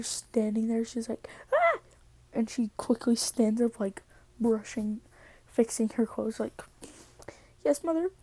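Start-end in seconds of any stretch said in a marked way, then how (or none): 1.5-1.8 short, high mock yelp; a quick yelp of surprise; startled yelp. Girl sees her mother standing there, startled. 7.6-8.1 high-pitched, dutiful answer; mock-innocent reply. Daughter fixes her clothes before her mother, innocently dutiful.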